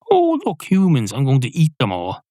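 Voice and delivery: squeaky-high delighted wolf voice; a hungry wolf spotting dinner; gleeful wolf. Retold or imitated.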